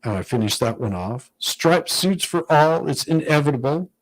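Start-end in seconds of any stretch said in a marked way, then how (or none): 1.4-3.9 comic book villain. Retold or imitated. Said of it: "very nineteen fifties comic book villain".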